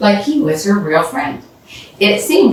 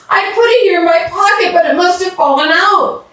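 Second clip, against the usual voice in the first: upset explaining; 12 semitones higher than usual. Acted. Explaining the lost money.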